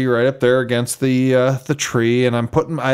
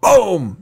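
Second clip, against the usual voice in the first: gunshot imitation; 5 semitones higher than usual. Imitates his rifle shot.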